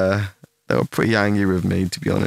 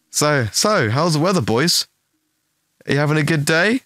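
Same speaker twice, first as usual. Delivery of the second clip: higher, fake breezy chatter; mock cheery small talk; 4 semitones higher than usual. Needling the annoyed friends while waiting, fake cheerful. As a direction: taunt them with innocent pleasantries. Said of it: "I was just being a fucking asshole".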